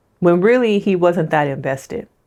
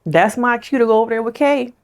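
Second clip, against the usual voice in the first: mock Tyler; 6 semitones higher than usual. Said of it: "It was like".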